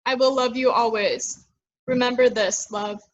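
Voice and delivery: measured open mic poem delivery; poetry reading. Acted. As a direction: give each line weight, like spoken word.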